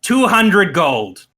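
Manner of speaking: grudging goblin chief, lightly voiced; slow goblin boss agreeing to a price. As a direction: drag out the haggling like a petty goblin boss. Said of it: "and he goes".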